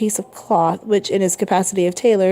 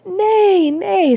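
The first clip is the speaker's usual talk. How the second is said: put-on high, lilting old man's nay; lightly voiced old man, pitched well up; gentle, smiling reassurance; 12 semitones higher, 4 dB louder than usual. A narrator's reading. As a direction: soothe with a quiet smile. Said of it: "said the old man with a quiet smile".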